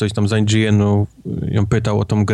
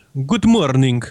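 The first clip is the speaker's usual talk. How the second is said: stereotyped Polish accent; 4 semitones higher than usual. Talking about keeping an accent for years, demonstrating a clichéd polish accent. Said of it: "z takim kliszowym, wiesz".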